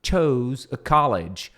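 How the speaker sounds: slow, clear "but I naively chose a college"; slow model reading. Shown as a demonstration. Teacher modelling the sentence slowly. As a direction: read it slowly. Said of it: "Então, but I na".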